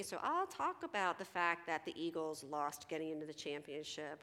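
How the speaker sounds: ordinary talk, nothing marked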